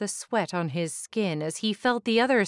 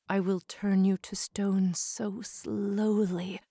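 cold, vengeful snake woman; Medusa voice. Acted.

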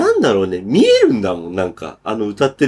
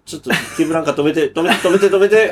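mock frantic plea; 4 semitones higher than usual. Re-enacting panic in the car.

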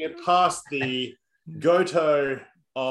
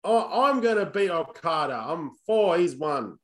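put-on New Zealand accent; 3 semitones higher than usual. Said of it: "terrible New Zealand accent".

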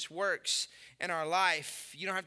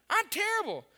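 rueful self-mockery; 12 semitones higher, 3 dB louder than usual. Mocking his own golf swing.

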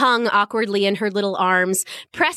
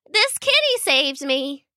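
put-on little girl voice; 4 semitones higher than usual. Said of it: "still a little shaky".

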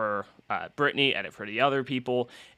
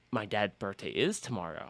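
stunned quiet; 4 semitones lower, 10 dB quieter than usual. Retold or imitated.

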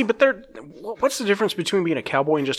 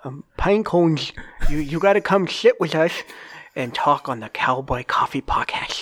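Sid the sloth voice. Retold or imitated. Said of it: "in Sid's voice".

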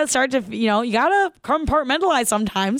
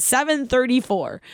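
savoring the time; 3 semitones higher than usual. Retold or imitated. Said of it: "I'll never forget it".

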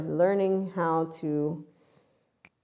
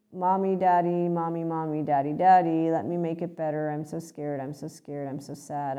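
put-on pleading small child; 2 semitones lower than usual. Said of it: "they're three-year-old, they're two-year-old".

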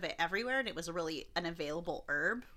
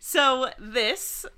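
very slow, grand announcement; dramatic title; 4 dB louder, much slower than usual. Acted. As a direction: announce the legend slowly.

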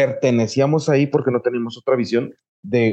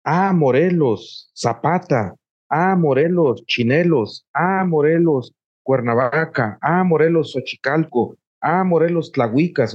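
proud recognition; 2 semitones higher than usual. Pretend. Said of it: "que realmente diga".

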